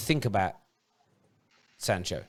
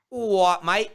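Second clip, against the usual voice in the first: exaggerated English accent, slow and drawn out; put-on English accent; 4 semitones higher, 5 dB louder, slower than usual. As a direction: stretch it out in a mock-English accent. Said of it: "put an English accent on".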